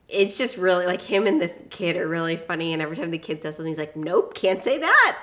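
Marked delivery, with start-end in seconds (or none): 4.0-5.2 slow, higher and louder mock veto; emphatic refusal. Retelling a film hero correcting a kid, emphatic refusal. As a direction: shut the kid down, drawing it out.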